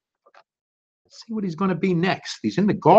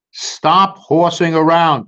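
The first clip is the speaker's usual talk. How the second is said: slow, louder mock scold; cow's slow scolding; 5 dB louder, slower than usual. Teacher reading as Cow telling Turkey off slowly. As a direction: drag out the rebuke like a bored cow.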